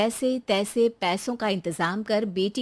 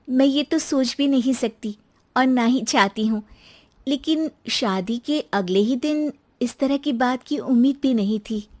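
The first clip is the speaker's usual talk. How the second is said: lightly raised voice of a hurt new bride; young wife Rekha; 4 semitones higher, 5 dB louder than usual. Acted. New bride answers her husband, a touch hurt.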